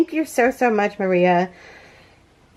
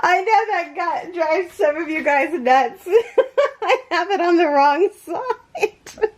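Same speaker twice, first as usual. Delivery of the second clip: high, giggly words breaking into laughter; helplessly amused, pitched high; laughing while talking; 8 semitones higher than usual. Real, not acted. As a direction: talk through a real laugh. Laughs at her own mistake.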